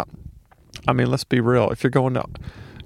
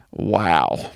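dismayed wow; 8 semitones lower than usual. Real, not acted. Reacting to his old recording.

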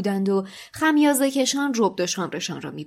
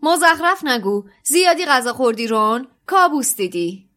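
startled scolding; 5 semitones higher, 8 dB louder than usual. A narrator's reading. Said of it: "که جا خورده بود گفت".

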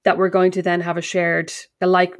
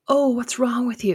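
mock concern, slightly raised pitch; imitated concerned listener; 4 semitones higher than usual. People react to her grumbling, mock concern. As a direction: play the over-earnest worrier. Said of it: "people are like".

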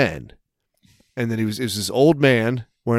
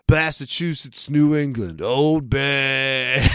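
put-on Boston accent; much slower than usual. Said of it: "I just hear him go".

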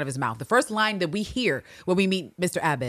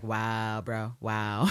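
low, softer, let-down reaction; deadpan imitation of a disappointed onlooker; mock dismay; 7 semitones lower, 5 dB quieter, much slower than usual. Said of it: "in the corner like".

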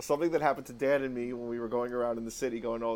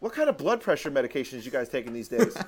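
shouting out the window; 7 semitones higher than usual. Retold or imitated. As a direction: yell it cheekily across the street. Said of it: "I shout out the window".

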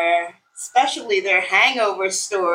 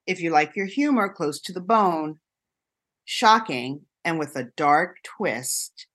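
ad read; 2 semitones lower than usual. Acted. Hosts a scripted cocktail segment.

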